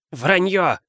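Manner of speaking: high-pitched cry of accusation; Филч. A narrator's reading. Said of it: "крикнул Филч". (выкрикнуть высоким голосом)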